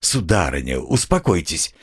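reassuring official; soothing. A narrator's reading. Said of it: "начал было чиновник".

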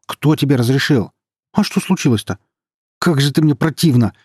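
loud, high outburst of outrage; wounded, furious yelling; outraged yelling. A narrator's reading. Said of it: "завопил Май".

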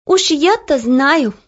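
put-on girl answering her sister with a sigh; knowing sigh. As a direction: say it slowly, knowingly. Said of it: "вздохнула Оля".

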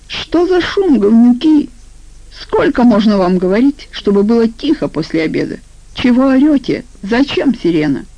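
high-pitched fussy scolding; flustered squeak. Acted. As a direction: squeak indignantly, pitch jumping up on the questions. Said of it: "знакомый всполошенный писк". (всполошенный писклявый голос)

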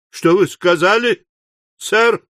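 rising in outrage; trembling with rage. A narrator's reading. Pott to Slurk over the newspaper, shaking with fury. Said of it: "дрожа от ярости".

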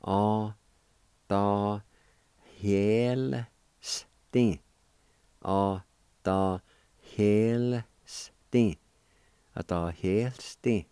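teacher repeats the corrected sounds for students; syllable drill. Shown as a demonstration. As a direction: stress the "hel" in "A, ta, hel, sten". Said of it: "pronounce the L sound with the H Y E like this".

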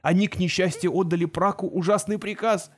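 from tearful to a shrill high wail; sobbing journalist spirals upward into panic; rising hysteria. A narrator's reading. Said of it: "прошептал он сквозь рыдание".

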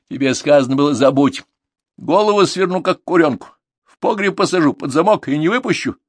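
loud, high threatening scold; scolding mother. Acted. Mother threatening her daughter, loud and angry.

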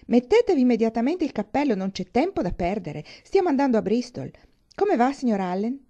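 loud, bustling gentleman in a hurry; boisterous young man. Acted. Thorpe bursting in to fetch Catherine, boisterous and urgent. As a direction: burst in giving brisk orders.

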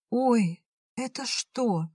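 высоко, изумлённое «ой»; удивись неожиданному подарку; удивление. A narrator's reading. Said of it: "удивилась та". (Лушка удивлённо смотрит на кольцо)

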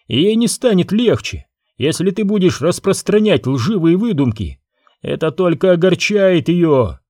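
a hint of a resentful prince lashing out; prince Bajoo's voice. Prince accusing Obi-Wan before his mother, mild heated voice.

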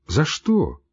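mild, gentle за что; soft question. A narrator's reading. Doctor mildly asking the raging patient why. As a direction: ask it gently, puzzled. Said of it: "спросил мягко".

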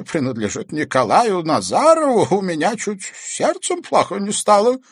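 lightly voiced old man telling his story; an old man recounting, a touch uneasy; old Bestuzhev recounting a mystery; old man's voice. Old man continues his tale.

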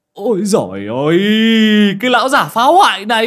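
high, loud outraged cry; the young master shrieking at the old man who broke his gate; shocked yelp. Acted. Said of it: "mà rú lên".

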